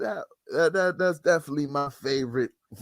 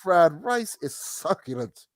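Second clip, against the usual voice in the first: mock food critic; slower than usual. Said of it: "Like, yo, this".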